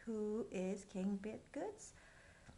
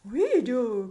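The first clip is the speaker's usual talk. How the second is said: loud group cheer; court shouting together; 14 dB louder than usual. Acted. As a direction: shout it like a crowd. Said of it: "cried the court".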